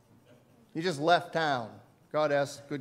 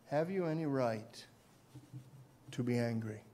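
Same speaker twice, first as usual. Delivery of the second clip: gentle question; 6 semitones lower, 7 dB quieter than usual. Retold or imitated. God's quiet question to Jonah.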